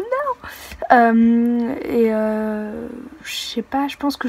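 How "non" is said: very high wail of no; despairing no. Retold or imitated.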